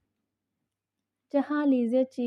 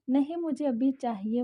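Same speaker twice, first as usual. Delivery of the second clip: a touch of tearful whine, rising; mild crying demand; 3 semitones higher than usual. Acted. Wife whining for chocolates at midnight, mildly tearful. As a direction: insist through mock tears. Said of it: "वो रोते हुए बोली".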